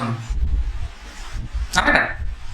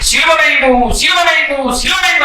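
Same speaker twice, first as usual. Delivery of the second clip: higher, insistent mob chant; crowd crying out; 4 semitones higher than usual. Acted. Crowd before Pilate demanding crucifixion, crying out. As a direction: imitate a crowd calling out, pitch raised. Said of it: "అని కేకలు వేశారు".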